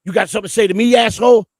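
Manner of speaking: acted-out aggressive face-off; in-your-face confrontation. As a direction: get in his grill, pitch climbing to the last word. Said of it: "get in my grill and say".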